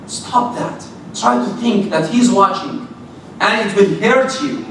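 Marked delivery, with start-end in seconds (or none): 0.1-0.8 whispered, urgent stop that; whispered command. Acted. Preacher whispers a warning to listeners to stop sinning. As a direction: hiss the warning under your breath.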